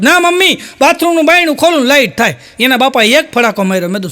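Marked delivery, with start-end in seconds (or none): 0.0-2.4 höher, quengelnd beharrend; a little boy insisting he is right; insistent small child. Retold or imitated. Boy insists to his mother.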